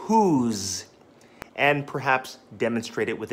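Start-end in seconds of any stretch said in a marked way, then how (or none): 0.1-0.9 "whose" said slowly and clearly, stressed; enunciated. Shown as a demonstration. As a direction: spell out every sound of "whose". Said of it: "You have to enunciate the word".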